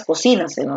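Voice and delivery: cocínaselo stressed on CI. Shown as a demonstration. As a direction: lean on CI in cocínaselo. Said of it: "La forma correcta de decir esta palabra".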